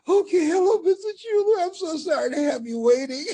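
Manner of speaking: high, loud and rushed; really excited. Retold or imitated. Greeting Robert Schuller back on the phone, hurried and thrilled. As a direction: gush it out, breathless with glee. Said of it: "You're really excited".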